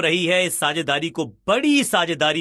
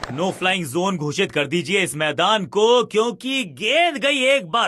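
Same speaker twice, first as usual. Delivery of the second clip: excited cricket commentary. Acted. Cricket game commentary, big hit.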